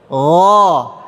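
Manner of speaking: "Oh" as a throaty ghain drawn long; "Oh" from the throat, long; model ghain sound. Shown as a demonstration. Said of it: "Coba semua". ("Oh" ghain dari tenggorokan)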